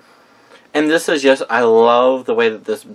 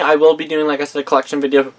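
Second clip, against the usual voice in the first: talking through hiccups; words broken by hiccups; 3 semitones higher, faster than usual. Real, not acted. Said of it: "Excuse me, got the hiccups".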